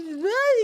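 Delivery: high, brief mock wail; imitated child's cry. Daughter crying as father rages, imitated wail. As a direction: mimic a small child crying out. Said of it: "my daughter's crying".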